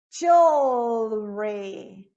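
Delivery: "jewelry" very slow and low, holding the dark L before REE; dark L inside. Shown as a demonstration. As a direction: stretch out "jewelry" into the L. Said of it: "depois a gente tem". ("jewelry" devagar, com L escuro)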